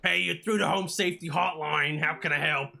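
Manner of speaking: loud overeager phone greeting; overeager hotline greeting. Acted. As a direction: greet the caller too brightly. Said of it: "That was too much".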